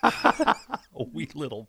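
slow, laughing through the words. Real, not acted. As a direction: laugh while you say it.

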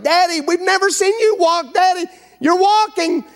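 put-on high, bright amazed kids' voices; excited children. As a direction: squeal it like amazed little kids.

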